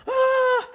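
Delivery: loud, high gasp; gasp for breath. Shown as a demonstration. Coach showing what happens without a breath, a loud gasp. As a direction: gulp in air loudly after running out. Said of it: "we didn't take a breath".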